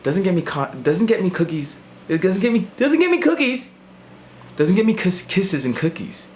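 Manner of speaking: high, teasing sing-song voice; whiny high mock voice to an ex; mock sing-song reply. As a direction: lilt it up high and mocking. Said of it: "I was like".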